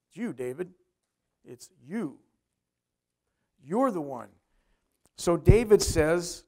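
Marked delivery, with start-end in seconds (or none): 0.1-4.3 low accusing prophet. Retold or imitated. Nathan voiced accusing David.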